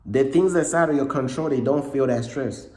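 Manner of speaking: hoarse voice cracking a little; real voice cracking from a cold. Real, not acted. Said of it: "my voice keeps cracking".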